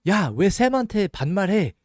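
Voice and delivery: high, loud, fast scolding; scolding a classmate. Retold or imitated. Student scolds a friend for using informal speech with the teacher, high loud fast scolding. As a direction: snap at a friend for being rude to the teacher. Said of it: "I hear this all the time".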